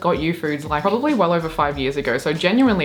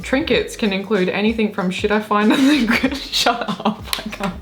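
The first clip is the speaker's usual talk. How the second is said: high, strained read breaking into giggles; fighting laughter; 4 semitones higher than usual. Real, not acted. Reader attempting the trinket list, fighting laughter. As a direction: try to read on, then crack up. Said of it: "How am I supposed to read this without laughing?".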